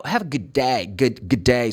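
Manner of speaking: "good day" with good cut down to a G sound; dropped-D good day. Shown as a demonstration. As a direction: run "good day" together as g'day. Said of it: "They pronounce the sound of the letter G".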